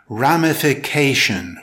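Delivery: "ramification" with the stress on CA; careful teacher's model of "ramification", ram-i-fi-CA-tion; stress on fourth syllable. Shown as a demonstration. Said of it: "with stress on the fourth syllable".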